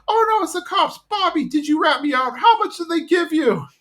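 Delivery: very high paranoid shriek; shrill panic at her own son; panicked Peggy. Retold or imitated. Peggy accusing Bobby of ratting, high and panicked.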